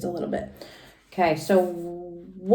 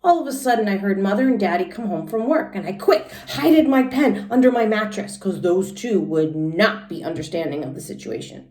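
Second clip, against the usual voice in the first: put-on lively little-girl storytelling voice, pitched higher; Junie B. read aloud; 6 semitones higher, 4 dB louder than usual. Teacher reading Junie B. to the class in a high kid voice. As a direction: read it as an excited first-grader telling her story.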